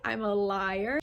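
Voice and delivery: slow, hushed disbelief, imitated; mock shock. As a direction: play offended astonishment, drawn out. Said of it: "he is so shocked by this".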